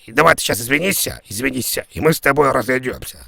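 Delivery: loud, hammered demand to apologise; shouting the caller into an apology. Acted. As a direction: bark the order to apologise.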